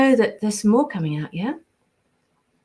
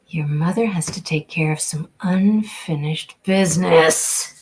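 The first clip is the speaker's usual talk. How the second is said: character voice; 3 semitones lower, 3 dB louder than usual. Acted. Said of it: "And then she goes off. That's from, uh, The Fury".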